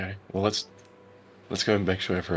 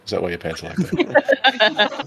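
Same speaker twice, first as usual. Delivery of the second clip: mocking funny voice; 14 semitones higher, 4 dB louder, slower than usual.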